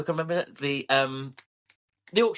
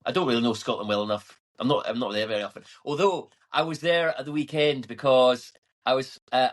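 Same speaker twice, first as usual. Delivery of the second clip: lightly put-on Scottish accent. Shown as a demonstration. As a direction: slip into a Scottish lilt. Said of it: "I'll stop that now".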